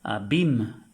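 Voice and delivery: "Abim" said loud, falling, a-BEEM; French abîme. Shown as a demonstration. Teacher repeating French word "Abim". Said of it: "que quiere decir abismo".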